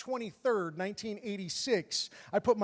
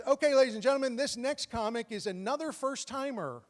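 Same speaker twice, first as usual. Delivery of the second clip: lightly imitated stage announcer, pitched up; club host introduction; 4 semitones higher than usual. Host introduces a first-time comic to the crowd, lightly voiced announcer. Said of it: "host goes on stage".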